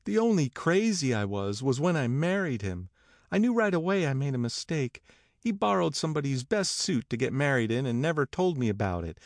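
high-voiced wife airing a grievance; aggrieved Myrtle. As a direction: tell the old grievance in a high voice. Voices Myrtle telling her grievance.

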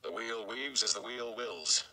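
slow, uneasy murmur; uneasily. A narrator's reading. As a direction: say it slowly, like a proverb you half doubt. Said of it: "Master Luhan said uneasily".

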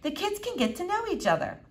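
light, soothing reassurance. Acted. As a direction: gently talk her into it. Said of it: "soothing voice".

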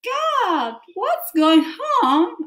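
high shrill-free panicked shout; hammed-up startled alarm. Shown as a demonstration. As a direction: cry out like something frightened you. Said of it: "sometimes you are saying".

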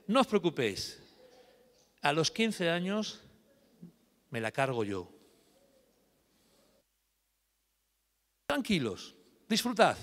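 low, menacing fairy curse; wicked fairy threat. Acted. Wicked fairy cursing Teresa to the parents, low menace. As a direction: promise her death calmly.

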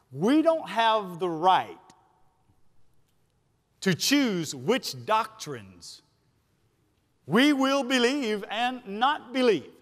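slow, deliberate preacher's cadence; emphatic preaching. Real, not acted. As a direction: weigh each phrase, pausing between them.

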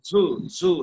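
"ঝু" with a buzzing, sharp z sound; buzzing consonant. Shown as a demonstration. Teacher correcting the letter's articulation, "ঝু" buzzed. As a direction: buzz the start of "ঝু", short vowel. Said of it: "ঝাঁঝালো, ঝিঝি আওয়াজে".

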